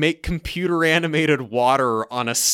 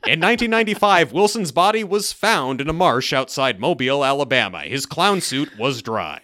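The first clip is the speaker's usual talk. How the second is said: Robert Stack narration; 4 dB louder than usual. Retold or imitated. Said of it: "Robert Stack looming in the background".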